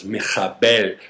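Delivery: "michabel" with a throaty kh; guttural Hebrew sound. Shown as a demonstration. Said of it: "which includes a guttural".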